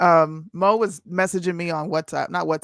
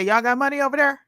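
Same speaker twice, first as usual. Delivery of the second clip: Southern Black accent; 7 semitones higher, faster than usual. Shown as a demonstration. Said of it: "You didn't say it like a white girl".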